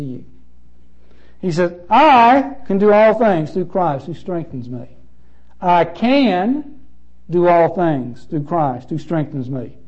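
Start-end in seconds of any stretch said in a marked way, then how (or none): 1.9-4.9 "I" gets the weight, rest of the verse plain; stress on I. Shown as a demonstration. Preacher showing the verse to the church, stress on "I". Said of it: "put an inflection on each one". 5.6-9.8 "can" pressed and held; stress on can. Shown as a demonstration. Preacher showing the verse to the church, stress on "can". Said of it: "put an inflection on each one".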